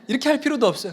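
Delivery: ordinary talk, nothing marked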